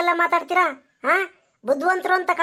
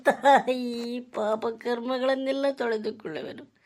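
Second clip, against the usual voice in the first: remorseful plea. Acted. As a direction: beg forgiveness as your voice gives out. Son begs mother's forgiveness.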